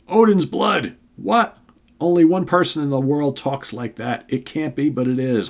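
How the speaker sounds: high, loud burst of amazement; shocked joy at an old friend; astonished Thor. Acted. Thor spotting Hawkeye, high astonished cry.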